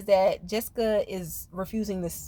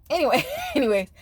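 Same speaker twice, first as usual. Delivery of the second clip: laughing reset; 4 semitones higher, faster than usual. Real, not acted.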